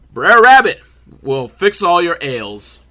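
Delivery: lightly put-on folksy storyteller; hammed-up storyteller imitation; caricatured Uncle Remus. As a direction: exaggerate the name, then draw out the promise. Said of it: "Uncle Remus didn't say it like that".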